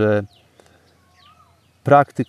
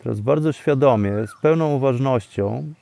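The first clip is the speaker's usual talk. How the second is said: guided meditation. Acted. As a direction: calmly lead them into stillness.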